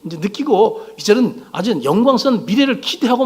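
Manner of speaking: imitated disciples, mildly excited; giddy anticipation. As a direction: voice their hopes with some lift. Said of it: "막 들떠 있었거든요".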